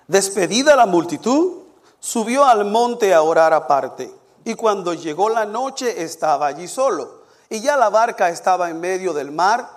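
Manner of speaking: measured, emphatic Bible reading; scripture reading. Real, not acted. Preacher reading Matthew aloud to the congregation, declamatory. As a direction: proclaim the passage phrase by phrase.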